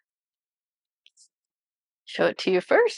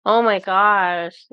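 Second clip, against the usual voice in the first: slow, louder amazed exclamation; awed surprise; 5 dB louder, much slower than usual. Real, not acted. Reader overwhelmed by the card's message, slow amazed exclamation. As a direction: let the awe spill out, drawn-out. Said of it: "Stop it".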